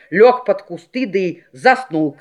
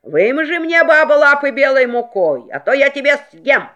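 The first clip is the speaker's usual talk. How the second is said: wolf growling; 6 semitones higher, 3 dB louder than usual. Acted. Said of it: "Волк и зарычал на неё".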